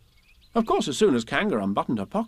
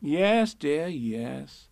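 lilting motherly reassurance; indulgent, settling coo; soothing; 3 semitones higher, much slower than usual. Acted. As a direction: humour the child gently. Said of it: "said Kanga soothingly".

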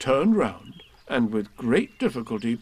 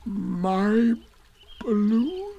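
raised, separated words of disbelief; Eeyore, stunned; 9 semitones higher, much slower than usual. A narrator's reading. Eeyore after a long silence, stunned question. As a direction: pause between words, rising at the end. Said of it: "said Eeyore at last".

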